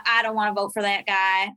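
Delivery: a hint of a grumbling male phone voter; imitated male voter. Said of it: "like, a male accent".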